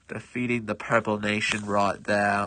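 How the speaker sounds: a hint of a British accent, savouring the win. Gamer repeats the victory in a mild British accent. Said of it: "suddenly becoming British".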